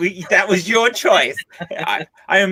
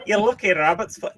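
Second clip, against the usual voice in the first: playful, wrong-sounding Irish accent; botched Irish accent; 3 semitones higher than usual. Shown as a demonstration. Co-host joking back at Irish guest, botched Irish accent. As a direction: have a poor go at Irish. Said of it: "No, that's not the right accent".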